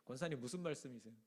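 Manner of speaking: calmly and softly, 권사님 said gently and low. Shown as a demonstration. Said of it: "침착하게". (침착하게 낮추어 "권사님, 무슨 말씀이세요?")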